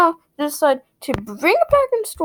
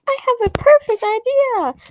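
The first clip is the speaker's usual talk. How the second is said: slow, higher, mock-proud executive voice; mock company boss; 8 semitones higher than usual. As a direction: act out the smug boss with the perfect plan. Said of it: "they were like".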